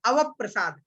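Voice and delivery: अवप्रसाद said "avap-prasad"; joined conjunct. Shown as a demonstration. Teacher answering his own question, अवप्रसाद joined as avap-prasad. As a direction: hold the प across the join in अवप्रसाद. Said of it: "क्या हो जाएगा".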